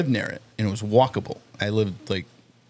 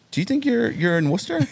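cop voice; 12 semitones higher than usual. Retold or imitated. Cop questioning drunk guy.

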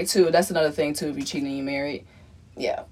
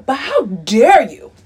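shaking with anger; 3 dB louder than usual. Real, not acted. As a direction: demand it in disbelief. Outraged at the bill.

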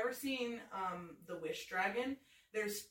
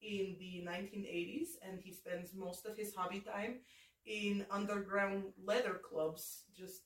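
put-on comic Russian accent with drawn-out word endings. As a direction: tell a character's life in mock-Russian. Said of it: "person that this Russian accent would".

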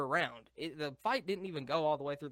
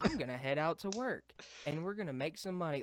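flat monotone voice, no ups or downs; deadpan monotone like a bored dad. Retold or imitated. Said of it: "like, a monotone accent just going".

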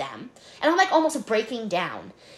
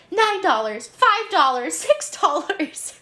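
high, flustered retelling of counting; mock on-the-verge-of-crying voice, pitched up; imitating near tears; 6 semitones higher, slower than usual. Flustered clerk totalling snacks while yelled at, almost crying. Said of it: "I'm, like, almost crying".

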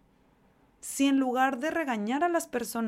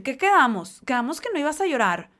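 loud, higher scolding of her son; scolding mother; 4 semitones higher, 7 dB louder than usual. Retold or imitated. Mother scolds her crying son after the lost final, loud and higher. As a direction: scold the crying boy loudly. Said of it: "su mamá le empieza a decir".

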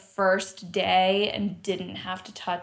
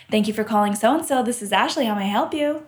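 phone greeting voice; faster than usual. Retold or imitated. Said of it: "And it's just like".

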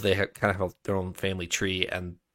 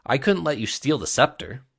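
reading a fantasy novel aloud; story narration; 2 semitones higher, 3 dB louder than usual. A narrator's reading. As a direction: tell it like a storyteller. Reads a novel prologue aloud.

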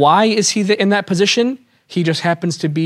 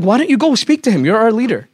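urging cronies; 5 semitones higher than usual. Retold or imitated. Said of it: "So he's like".

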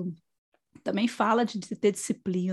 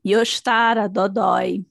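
congested sick voice with a cold; talking through a blocked nose; stuffy nose; 7 dB louder than usual. Real, not acted. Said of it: "tá gripada". (nariz entupido, voz de gripe)

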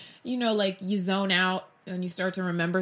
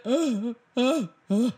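bawling; 3 semitones higher, slower than usual. Retold or imitated. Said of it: "I started bawling".

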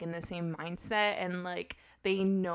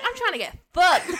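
laughing; 9 semitones higher, 8 dB louder than usual. Retold or imitated. Teasing quote of friend.

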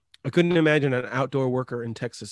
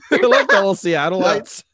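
hammed-up fellow local greeting; 7 semitones higher, 8 dB louder, slower than usual. Greeting Seattle as a fake local.

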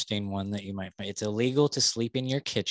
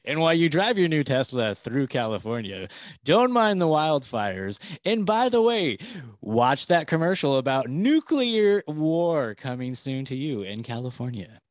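game show announcer; 3 semitones higher, 3 dB louder than usual. Pretend. Continuing mock announcer pitch.

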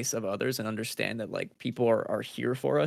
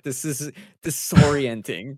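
slow dazed; 3 semitones higher, 7 dB louder, slower than usual. Retold or imitated. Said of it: "I was like".

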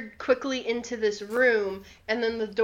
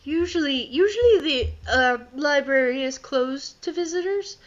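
put-on old man voice; 3 semitones higher than usual. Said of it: "elderly hunchbacked man".

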